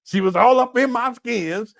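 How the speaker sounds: breaking into laughter mid-impression; can't hold the bit, laughing through it; mock Umar, laughing. Host laughs at his own fake Umar story. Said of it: "Umar gonna be up here talking about".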